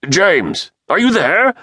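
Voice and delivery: shouting into a dead phone. A narrator's reading. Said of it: "shouted the professor into the dead phone".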